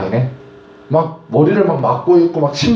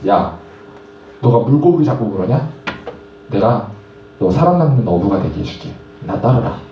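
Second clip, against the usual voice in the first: a lower, calm voice for Jesus calling Peter; lightly voiced Jesus, lower and steady; Jesus speaking; 5 semitones lower than usual. Jesus calls Peter to follow. (낮고 차분한 예수님 목소리)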